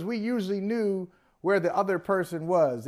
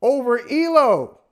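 louder, higher play-by-play call; frantic mock sports commentary; 5 semitones higher, 7 dB louder, slower than usual. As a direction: call the shot like a broadcaster. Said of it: "And he says".

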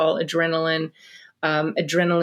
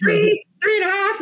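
high, strained, hammed-up counting; mock stern countdown; 3 dB louder than usual. Mom stalling the count at her four-year-old. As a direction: stretch the count like a cornered mom. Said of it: "what do we do when a four-year-old".

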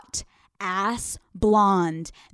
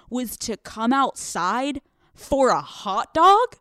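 disbelieving recap, slowing at the end; imitated incredulity; 2 semitones higher than usual.

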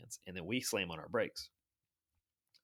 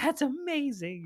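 gushing; 5 dB louder, slower than usual. Retold or imitated. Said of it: "everybody's like".

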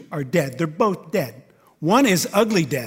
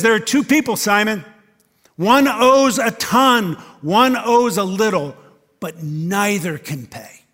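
forceful preaching; 4 semitones higher, 8 dB louder than usual. Acted. Preacher voicing Jesus parable.

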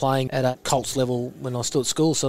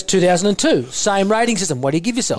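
imitating coach Eddie Jones; 5 semitones higher, 3 dB louder than usual. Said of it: "I'll go in and out of his voice".

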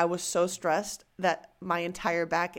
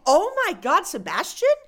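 embarrassed surprise; 12 semitones higher, 6 dB louder than usual. Retold or imitated. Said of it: "And I'm like".

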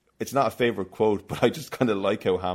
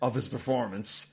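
much higher, louder indignant rant; mock outraged review reading; 9 semitones higher, 4 dB louder than usual. Host reads a one-star review in mock outrage. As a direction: read it like a furious critic.

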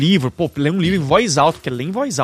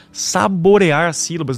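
slow, drawn-out "saborear as sílabas"; deliberately unhurried, fully articulated demo; savouring the syllables; slower than usual. Shown as a demonstration. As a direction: stretch out each syllable of "saborear". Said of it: "pronunciar bem as sílabas".

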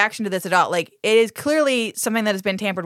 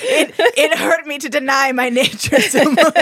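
mock anguished; 6 semitones higher, 5 dB louder than usual. Voicing David's pain.

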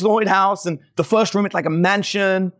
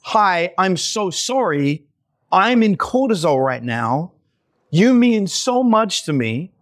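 calm and sincere. Shown as a demonstration. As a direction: soothe your partner while stepping away. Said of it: "Instead to state to the other person".

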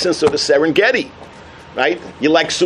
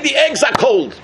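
chanted complaint shout; mock shout; 5 semitones higher than usual. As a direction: everyone joins the gripe. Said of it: "Everybody's saying".

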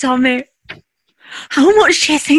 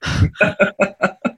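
panicking; 6 semitones higher than usual. Real, not acted. Wife panics over lost ticket.

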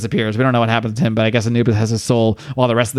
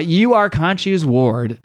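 slow, higher, lightly intoned god voice; Anubis voice; 4 semitones higher, slower than usual. Retold or imitated. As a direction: pronounce it slowly like a solemn god. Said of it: "Um, Anubis".

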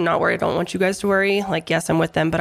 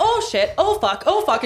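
squealing high-pitched panic; panicked high squeal; 9 semitones higher, slower than usual. Retold or imitated. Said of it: "I was like".

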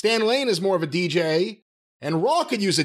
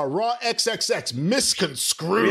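slow, deliberate; slower than usual. Shown as a demonstration. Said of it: "that could be misconstrued".

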